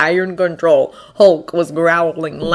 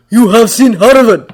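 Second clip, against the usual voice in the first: eager question; 5 semitones higher, 8 dB louder than usual. A narrator's reading. Thor hopeful eager question.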